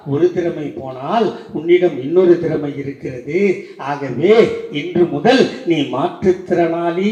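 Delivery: loud, stretched-out declamation; ringing proclamation. Retold or imitated. Leader gives the disabled man a dignified new name, loud proclamation.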